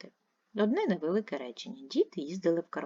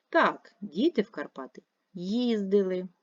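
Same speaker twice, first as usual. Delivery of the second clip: їздили said with more force at the end; stress on їздили; 3 semitones higher than usual. Shown as a demonstration. Teacher answers a yes-no question, stressing їздили. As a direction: press on їздили. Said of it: "вимовляємо це слово з більшою силою голосу".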